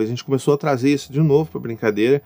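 ordinary talk, nothing marked

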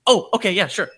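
mock-sheepish, eager to please; meek instant compliance. Reenacting caving to the mom at the state fair, sheepish. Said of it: "I literally did this right here".

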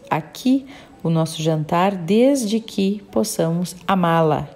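measured, even read-aloud storytelling; audiobook narration. A narrator's reading. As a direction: read the passage out evenly, phrase by phrase. Reads a book aloud.

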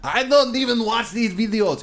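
high squeaky words through laughter; wheezing with laughter; laugh-crying. Real, not acted. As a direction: barely get it out while cracking up. Quoting the clip while laughing.

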